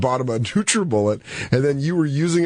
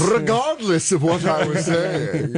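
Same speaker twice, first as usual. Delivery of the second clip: renaissance fair olde speech; 4 semitones higher, slower than usual. Pretend. Ornate mock speech bit.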